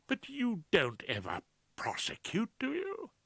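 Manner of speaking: high, fretful Claude voice; Claude, anxious. Acted. Claude frets to Rumpole, high and anxious. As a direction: voice a nervous barrister pleading.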